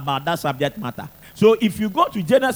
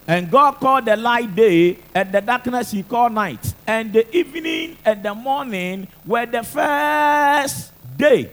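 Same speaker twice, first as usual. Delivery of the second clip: booming biblical narration; 3 semitones higher than usual. Acted. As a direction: proclaim each verse from the pulpit. Reads Genesis aloud in sermon.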